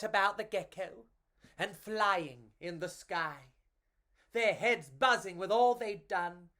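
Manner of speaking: put-on lively read-aloud for children; storybook narration. A narrator's reading. Reading a picture book to children, lively storytelling. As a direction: tell it like a bedtime picture book.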